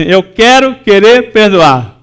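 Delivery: "eu quero querer perdoar" slow, stress on "quero"; slow emphatic phrase. Shown as a demonstration. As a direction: lean on "quero" and draw it out. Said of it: "fala assim". (lento, ênfase em "quero")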